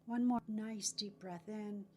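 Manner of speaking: calm, measured phrases, leaving room to breathe; guided meditation. Acted.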